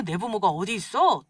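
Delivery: ordinary delivery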